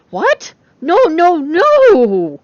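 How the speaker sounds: very high, loud squealing no; overjoyed disbelief; excited protest. A narrator's reading.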